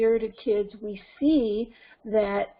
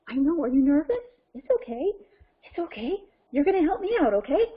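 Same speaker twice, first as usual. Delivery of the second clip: higher, coaxing pet-talk; reassuring; 4 semitones higher, faster than usual. Pretend. Speaker comforting her puppet assistant Cheetah, higher, coaxing reassurance. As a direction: coax a nervous little helper along.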